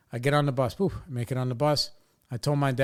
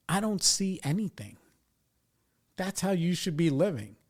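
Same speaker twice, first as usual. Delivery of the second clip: lecturing dad; 4 semitones higher than usual. Retold or imitated. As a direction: imitate a dad giving a firm lecture. Dad lays down his rule.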